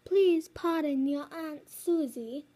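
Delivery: a hint of a teacher's announcing voice; Missus Lindy. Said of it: "that's what Missus Lindy says".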